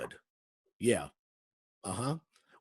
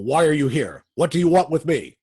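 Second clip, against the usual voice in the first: alarmed demand; 2 semitones higher, 6 dB louder than usual. Acted. Warden confronted by the Shadow.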